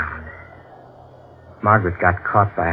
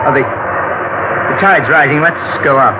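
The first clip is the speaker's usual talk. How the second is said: uneasy haste; 5 semitones higher, slower than usual. Acted. Husband alarmed by the rising tide.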